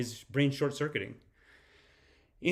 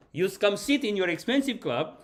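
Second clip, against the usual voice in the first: higher-pitched mock scolding; mimicked scolding; 6 semitones higher than usual. Streamer re-enacting the man stepping back in, mildly mock-angry. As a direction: lightly act out an indignant commander.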